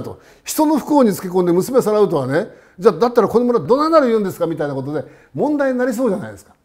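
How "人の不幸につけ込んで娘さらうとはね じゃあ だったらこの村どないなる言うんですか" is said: indignant. Retold or imitated. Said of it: "これ、怒りますよ".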